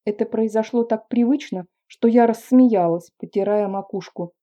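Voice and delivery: ordinary delivery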